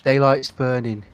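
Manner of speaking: corrected take in a British accent. Shown as a demonstration. Player retrying the line for their character, British accent. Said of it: "You're British".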